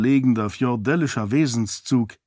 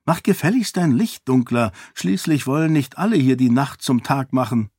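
lightly voiced imperious lady; bossy lady; 3 semitones higher than usual. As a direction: scold your servant a little. Lady orders servant to dim light.

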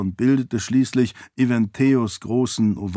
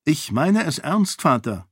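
higher, resolute protest; determined; 5 semitones higher than usual. Acted. Daughter stands firm against father, determined voice. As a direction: insist firmly, dropping on the final word. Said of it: "sagte Sarene entschlossen".

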